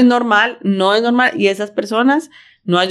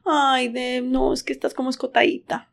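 gentle critique; 3 semitones higher than usual. Retold or imitated. Gentle honest comment quoted.

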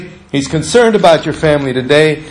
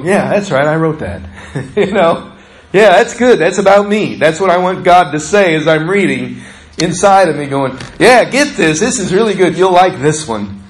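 delighted God voice; 2 semitones higher than usual. Acted. God pleased while the speaker reads.

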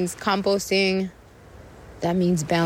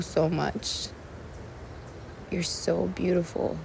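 prayer to earth. Real, not acted. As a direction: murmur thanks as if praying.

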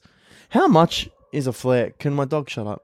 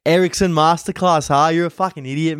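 higher-pitched imitation of a jeering fan; playful jeer, pitched up; mock heckling; 4 semitones higher than usual. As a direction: rib him like a rowdy mate. Fans grabbing him to give shit.

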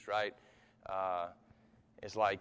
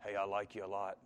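hushed, tender mock whisper; soft whisper; 5 semitones lower, 7 dB quieter than usual. Preacher imagining God's whisper, a soft hushed voice. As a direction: croon it quietly, like sweet talk. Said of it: "in the whisper it'd be something like".

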